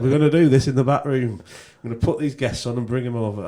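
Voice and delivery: put-on Yorkshire accent. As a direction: retell his plan in mock Yorkshire. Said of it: "he's not from Yorkshire".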